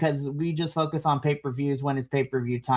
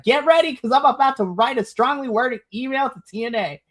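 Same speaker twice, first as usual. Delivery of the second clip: mock threat; 7 semitones higher than usual. Fan warns the promotion of an angry email, hammed up. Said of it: "And I was just like".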